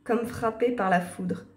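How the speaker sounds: composed story narration. A narrator's reading. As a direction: narrate the scene evenly. Lit la narration du jeu. (narration posée d'histoire)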